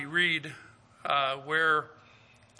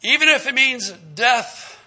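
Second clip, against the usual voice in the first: raised, slower, declaring it boldly; bold vow; 7 semitones higher, 8 dB louder, slower than usual. Retold or imitated. Peter vowing to Jesus, boldly raised voice. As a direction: swear loyalty like you mean it. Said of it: "he boldly said".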